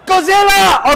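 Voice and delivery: hammed-up Godzilla cry, high and loud with a laugh; playful put-on shout of Godzilla; mock Japanese. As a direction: shout Godzilla like a joking movie fan. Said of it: "I will be Japanese for the moment".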